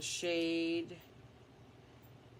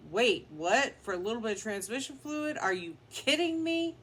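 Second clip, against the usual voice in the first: rising disbelief, ending high; can't believe the price; incredulous; 4 semitones higher, 4 dB louder than usual. Retold or imitated. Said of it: "I was like".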